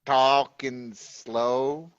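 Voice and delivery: very slow mock Georgia drawl; Georgia accent impression. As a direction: drag each word out like a caricature Georgian. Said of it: "your impression of people from Georgia".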